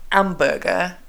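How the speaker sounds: "hamburger" French-style, H dropped; French-accented "hamburger" starting on the vowel, no breath. Shown as a demonstration. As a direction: say "hamburger" as "amburger", like a French learner. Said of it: "with a French accent, you say".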